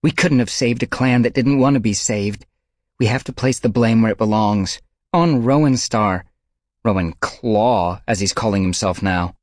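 furious at the leader; angry. A narrator's reading. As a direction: lay the blame hard. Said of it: "she snarled".

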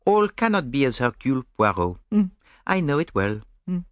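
amused, precise Belgian detective; gently mocking his romantic friend; Poirot.

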